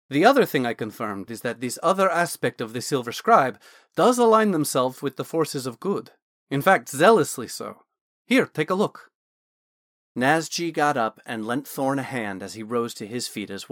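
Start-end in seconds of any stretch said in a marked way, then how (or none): 0.1-9.1 lightly voiced scholarly mage, louder; a hint of an eager Dragonborn scholar; Naz the Dragonborn mage. Wizard Naz explaining the armor to Thorn, lightly voiced and louder.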